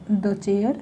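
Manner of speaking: "the" said as short duh, "chair" drawn out slowly; slow demo. Shown as a demonstration. Teacher slowly models duh before a consonant. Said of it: "consonant sound के साथ हम बोलते हैं इसको द".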